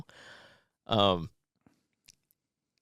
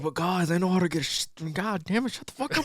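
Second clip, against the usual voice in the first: higher-pitched mock protest; acted squabble, climbing in pitch; imitated bickering; 7 semitones higher than usual. Clarence butting in on the big boys, imitated bickering.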